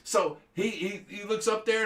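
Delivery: usual speaking voice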